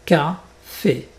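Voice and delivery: café with a clear, closed é at the end. Shown as a demonstration. Teacher shows learners the accent aigu, closed é in café. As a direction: say café ending on a tight, closed é. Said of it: "donc c'est fermé".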